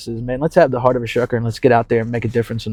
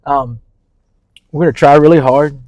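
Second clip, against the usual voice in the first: sarcastic; 3 semitones higher, 4 dB louder than usual. Acted. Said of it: "I say that a little bit sarcastically".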